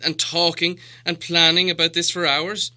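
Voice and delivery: impatient Thorin. A narrator's reading. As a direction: pile on the questions, exasperated. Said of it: "said Thorin".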